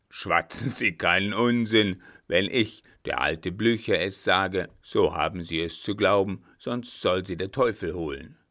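lightly voiced marshal, indignant and forceful; a hint of an angry commander, loud at first; domineering old marshal. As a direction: lay down the law as the marshal. Blücher rebukes the official.

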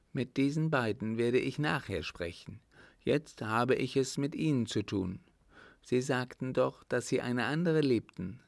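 a hint of a demanding older lady; countess. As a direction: countess pressing him for answers. Countess questions the young officer.

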